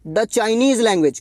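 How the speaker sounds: very slow, each word drawn out; slow answer read-out. Shown as a demonstration. Teacher stating the correct answer to students, very slow. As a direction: spell out the right answer slowly. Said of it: "इसीलिए यहाँ पर आ जाएगा the".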